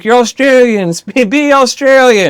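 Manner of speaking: slow, high-pitched comic exasperation; drawn-out, climbing whine of protest; high mock plea. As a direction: stretch it out high, as a mock demand. Mock demand about Kidman's real accent.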